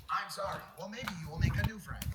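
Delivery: flat mechanical robot voice. Retold or imitated. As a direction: speak like a chatbot. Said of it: "why you made a robot voice".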